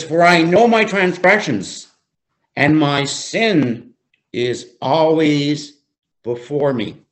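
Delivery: "For I know my transgressions" lifted and firm; slow down and weight "sin" and "always"; emphatic scripture reading. Real, not acted. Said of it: "I'm gonna emphasize certain words more".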